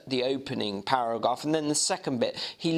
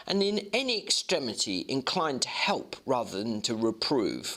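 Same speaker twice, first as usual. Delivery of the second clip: measured reading of a classic novel; steady audiobook narration; story narration. A narrator's reading. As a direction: read it like a storyteller. Reads the novel aloud.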